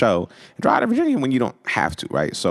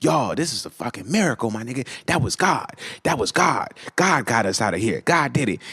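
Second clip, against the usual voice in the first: higher-pitched, marvelling repetition; amazed insistence; 5 semitones higher than usual. Retold or imitated. Brian to the car after escaping a ticket, excited insistence. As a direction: imitate an awed friend who won't stop.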